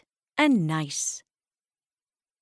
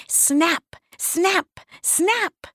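rising snaps; 10 semitones higher, much slower than usual. A narrator's reading. Magic snaps building up.

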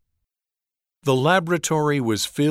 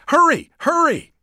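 very high, loud shrieking; 6 dB louder than usual. A narrator's reading. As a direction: shriek it as if the monster is coming. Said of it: "she shrieked".

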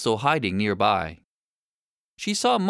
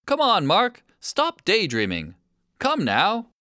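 raised, urgent call to a daydreamer; 5 semitones higher than usual. Acted. Shark shoal calling Mark to join the hunt, raised and urgent.

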